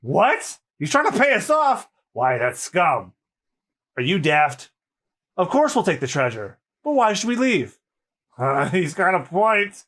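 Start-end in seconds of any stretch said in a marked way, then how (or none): 2.1-6.6 gruff pirate. Acted. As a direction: growl it like a rough pirate.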